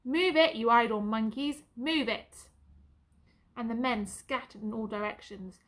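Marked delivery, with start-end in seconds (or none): 0.0-2.5 loud barked command to the troops; parade-ground bellow, moving the men along; booming sergeant's order. Acted. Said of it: "came that booming voice again".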